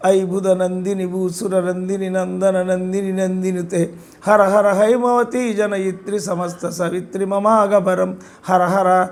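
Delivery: slow, monotone verse chanting; Sanskrit hymn recitation. Shown as a demonstration. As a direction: chant the verse steadily, syllables running on evenly. (నెమ్మదిగా ఒకే స్వరంలో శ్లోక పఠనం)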